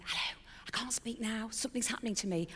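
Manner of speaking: breathy imitated whisper of her husband, pitched a touch up; retold whisper. Husband answering the phone mid-seminar, imitated whisper. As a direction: hush it like you can't talk right now. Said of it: "he answers in a whisper".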